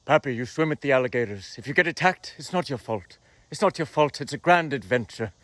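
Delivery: low, hushed celebrity-mentor voice telling you it's a grand adventure; Robin Williams impression. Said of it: "This is Robin Williams talking to me".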